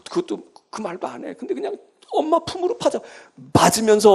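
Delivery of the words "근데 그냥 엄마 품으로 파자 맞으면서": said through a real laugh. Real, not acted. Preacher laughing to congregation at a child burrowing in. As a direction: chuckle while saying it.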